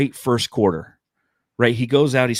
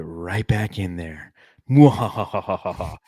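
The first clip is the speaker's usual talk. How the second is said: mad scientist; slower than usual. Pretend. Evil laugh to tease co-host.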